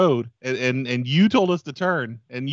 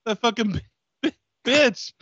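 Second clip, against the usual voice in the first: robber voice; 8 semitones higher than usual. Acted. Robber voice in fake crash.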